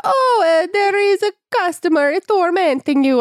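high hammed-up Italian accent; mock Italian shopkeeper. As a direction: squeak it out like a cartoon Italian grandpa. Partini voice again.

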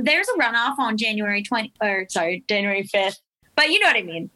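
put-on Southern accent, phone-banker patter. Shown as a demonstration. Volunteer telling a voter about the runoff, Southern accent. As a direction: demo a Southern accent on a scripted call. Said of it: "I do a Southern accent when I call".

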